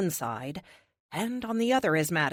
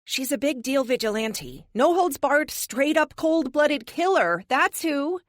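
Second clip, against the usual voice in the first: bright soprano, much higher and louder; 8 semitones higher, 4 dB louder than usual. A narrator's reading. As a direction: pitch it way up, gushing. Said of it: "she says in her soprano".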